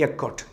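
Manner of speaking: എക്കോട്ട് with an opening "e" and a crisp final t; correct pronunciation. Shown as a demonstration. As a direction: say എക്കോട്ട്, stressed on the second syllable. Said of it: "correct pronunciation".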